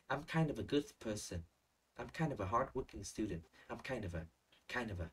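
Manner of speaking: "kind of a" run together as kain-də-və in each example; natural linking. Shown as a demonstration. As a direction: model "kind of a" as one linked chunk. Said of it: "it's very natural in speaking". (đọc mẫu nối liền "kind of a" cho tự nhiên)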